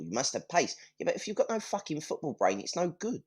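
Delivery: ordinary delivery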